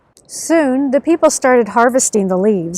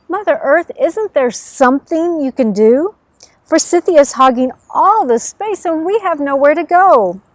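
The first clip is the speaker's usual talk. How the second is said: higher, louder plea to Mother Earth; pleading animals; 4 semitones higher, 3 dB louder than usual. Acted. Animals begging Mother Earth for room, in a raised pleading voice. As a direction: beg her for help, voice lifted.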